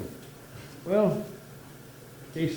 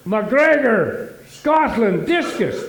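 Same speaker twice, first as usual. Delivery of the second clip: loud, formal, high call at the gate; proud announcement; 4 semitones higher, 5 dB louder, much slower than usual. Acted. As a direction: announce yourself like an Olympian.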